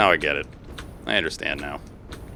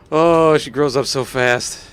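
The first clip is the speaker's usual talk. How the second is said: mock proud parent; 2 semitones higher, much slower than usual. Mock proud parent over build.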